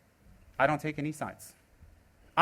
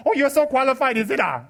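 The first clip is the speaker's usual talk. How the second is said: sarcastic mockery; 5 semitones higher, 4 dB louder than usual. Mocking a self-styled guru judge.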